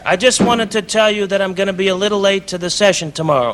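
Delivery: put-on Jewish London accent. Prank caller fooling the composer, Jewish London accent. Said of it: "Now I'm talking in a Jewish accent from London".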